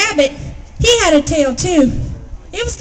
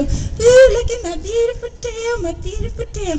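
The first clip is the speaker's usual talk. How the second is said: proud Possum; 8 semitones higher than usual. A narrator's reading. Possum shows off his tail.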